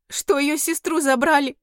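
high, loud tearful cry; tearful outcry. Acted. Heroine tells the demon the news, crying out. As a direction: blurt it out in tears.

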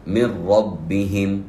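من ربهم said as minrabbihim; slow demo, nun swallowed into ra; merged nun. Shown as a demonstration. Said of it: "بهذه الطريقة".

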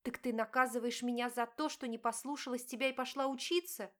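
wife confronting her cheating husband, pained; hurt wife. Acted. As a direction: plead and accuse at once. Diana accuses husband.

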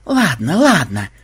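loud, annoyed concession; grudging. A narrator's reading. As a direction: agree reluctantly and irritably. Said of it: "недовольно поморщился Ксенобайт".

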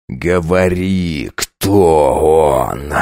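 slow, low snarl like a beast; low growl. Acted. Count demanding a name, slow low growl. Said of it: "прорычал точно зверь".

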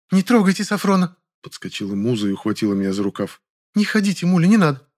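a sister begging him to spare her brother; pleading woman. Acted. Muza pleads, protecting brother.

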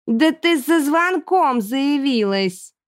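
slow, drawn-out grumble; grumbling Erji. A narrator's reading. Chubby girl complaining about cookies, slow grumble. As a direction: sulk over the cookies.

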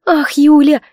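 a mild sob on her friend's name; half-sobbed exclamation, voice up high; sobbing cry. A narrator's reading. Kamila sobbing to Yulia about being sent away. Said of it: "всхлипнула Камила".

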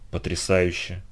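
soft, hushed awe; whispering. A narrator's reading. John is stunned by the vision of the past, whispering. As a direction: murmur it under your breath. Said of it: "прошептал Джон".

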